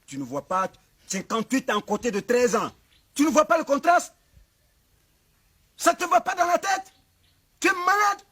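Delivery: high, loud rant building up; outraged shouting. Acted. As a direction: berate him in disbelief at full voice. Chief outraged at age gap.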